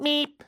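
little high "meep" honk; be a tiny car's horn; imitated small-car horn. Comparing horns with an Audi, imitated small-car meep. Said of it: "I had to compare horns".

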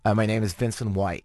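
lightly put-on Canadian accent; faked Canadian accent. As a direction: badly fake a Canadian accent for a guard. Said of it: "I faked it".

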